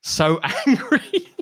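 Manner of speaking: high, loud, slowed laughing cry of "angry"; laughing mock anger. Real, not acted. Joking about his rage to co-host, laughing and high. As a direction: laugh out the word, mock furious. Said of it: "I'm like the last angry man".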